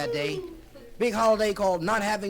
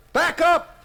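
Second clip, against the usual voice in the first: much higher, much louder frantic orders; panicky shouting; 9 semitones higher, 11 dB louder than usual. Acted. Chris shouting steering orders at the crew. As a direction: yell like the ship's about to fall off. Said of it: "going through a bit like".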